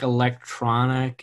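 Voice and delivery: "electronic" set apart as if in air quotes; air-quote inflection on electronic. Real, not acted. Hedging to co-host about the band's sound, air-quote inflection. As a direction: put audible quote marks round "electronic". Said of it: "hear the air quote inflection".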